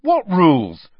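high, loud demand; indignant loud question; chorus of children. A narrator's reading. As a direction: everyone blurts it out at once. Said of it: "George together".

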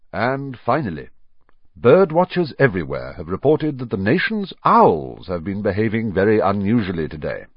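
crisp newsreader delivery; news anchor. Acted. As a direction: read it like an evening news report. Reads the TV news report.

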